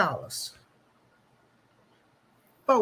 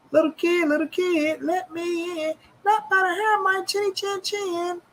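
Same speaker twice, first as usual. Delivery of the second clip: high, sing-song big bad wolf parody; a mock fairy-tale wolf; wolf story voice; 8 semitones higher than usual. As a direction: taunt like the wolf at the door.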